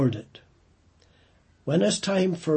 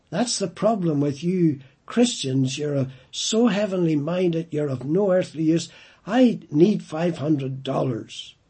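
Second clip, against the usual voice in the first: angry son; 3 semitones higher, 4 dB louder than usual. Retold or imitated. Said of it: "he became really angry".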